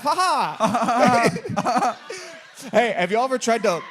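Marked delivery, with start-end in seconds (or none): 0.0-2.0 forced "ha ha" laugh; demonstrated laugh. Shown as a demonstration. Showing the guy on stage how to just laugh, mock laugh. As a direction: fake a laugh on cue. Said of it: "just laugh. Like, laugh".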